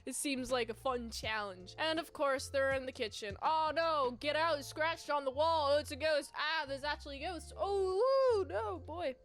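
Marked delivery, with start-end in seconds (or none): 3.4-9.1 scared cartoon panic. Characters find the ghost.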